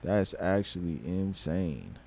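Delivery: quietly stunned to himself; hushed awe. Real, not acted. Quiet awe after excitement.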